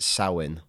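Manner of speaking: Samhain said SOW-in; Irish pronunciation. Shown as a demonstration. Explaining the Irish to co-host, Samhain as SOW-in. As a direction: say Samhain as SOW-in, first part like cow. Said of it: "Like cow in".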